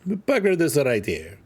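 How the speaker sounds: slowed-down mock Italian; playful Italian accent. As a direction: put on a light Italian accent, slowly. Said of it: "I don't know why I'm Italian all of a sudden".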